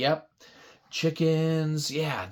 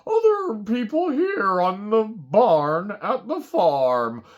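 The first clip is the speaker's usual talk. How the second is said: horse voice. Acted. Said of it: "this horse was thinking".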